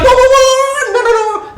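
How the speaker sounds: high, loud mock whoa; hammed-up recoil, waving it off; startled protest. Mando recoiling as she says his creed, startled. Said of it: "And he's like".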